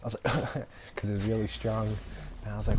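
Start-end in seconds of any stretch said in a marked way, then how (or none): 0.4-0.9 small, quiet cough; light mock cough; imitated cough. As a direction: give a tiny demonstrative cough. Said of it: "this one time I coughed".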